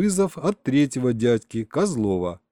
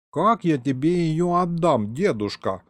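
high, slow disbelief; astonished; 5 semitones higher than usual. A narrator's reading. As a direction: ask it in drawn-out amazement. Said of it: "поразился зелёный проглот".

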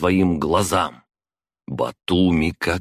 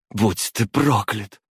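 spat curse; 5 semitones higher, slower than usual. A narrator's reading. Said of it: "выплюнула ему в лицо".

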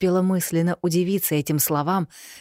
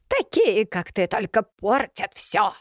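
contemptuous witch; 5 semitones higher, slower than usual. A narrator's reading. Yaga scorns Elena, slow and spiteful. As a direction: jump high on the first word, then slow spiteful crone.

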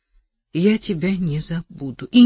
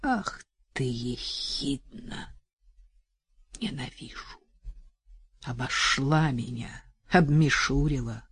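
impotent fury. Acted. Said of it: "думала в бессильной злобе".

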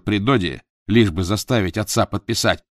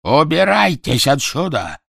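berserk rage, high and loud; furious shouting; 9 semitones higher, 9 dB louder, slower than usual. Acted. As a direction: scream in blind fury. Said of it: "в бешенстве закричал Квидер".

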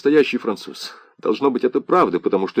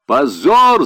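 sharp, loud outcry, raised high; cry of shame; 6 semitones higher, 4 dB louder than usual. A narrator's reading. Leo shouts at his friend over Pétain, loud outcry. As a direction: fling the word out in disgust. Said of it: "закричал Лео".

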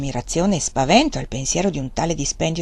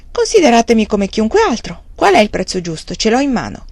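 proud bargaining; 3 semitones higher, 5 dB louder than usual. Pretend. Imagined proud buyer.

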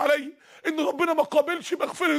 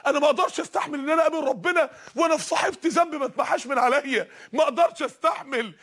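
impassioned cry; 2 semitones higher than usual. Acted. Voicing the repentant woman.

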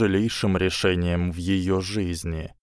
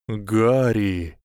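breathed out. A narrator's reading. A voice breathes Harry's name in a colourless world. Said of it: "выдохнул какой-то голос".

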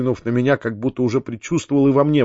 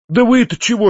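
high-pitched, hot-headed challenge; heated outburst; 9 semitones higher, 3 dB louder than usual. A narrator's reading. Nephew turns on the peasants, heated outburst. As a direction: burst out impatiently at them. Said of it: "закричал я в запальчивости".

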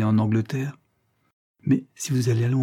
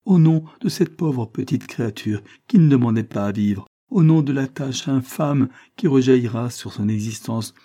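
louder, desperate pleading; anguished cry; 3 semitones higher, 5 dB louder than usual. Acted. Isabel on her knees pleading for her child, anguished. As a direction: beg him with mounting anguish. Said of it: "cria-t-elle avec angoisse".

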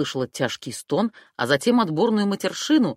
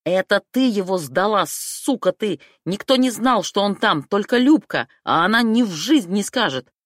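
furious shout, louder and higher; yelling; 4 semitones higher, 6 dB louder than usual. A narrator's reading. Vitya accusing the heroine of betrayal, yelling furiously. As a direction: leap up and scream the accusation. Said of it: "вскочил и заорал".

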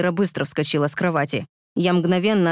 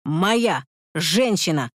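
shouted; much slower than usual. Acted. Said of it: "кричал я".

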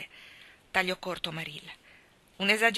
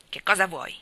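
curt, louder demand; brusque; 5 dB louder than usual. A narrator's reading. Mrs Barry at the door to Anna, a curt louder demand. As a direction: cut her off coldly. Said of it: "chiese brusca".

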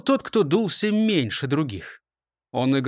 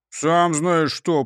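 grumble; slower than usual. Acted. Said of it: "проворчал тот".

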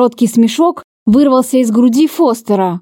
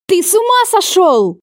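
shouted; 8 semitones higher than usual. A narrator's reading. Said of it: "закричала я".

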